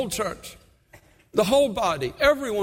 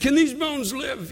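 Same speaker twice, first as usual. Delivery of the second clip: God's question; 5 semitones higher, slower than usual. Retold or imitated. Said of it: "And he said".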